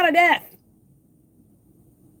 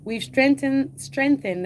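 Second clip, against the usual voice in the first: a light mock Jamaican accent, pitched up; 4 semitones higher, slower than usual. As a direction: playfully slip into Jamaican for strengthened. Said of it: "that's my Jamaican accent".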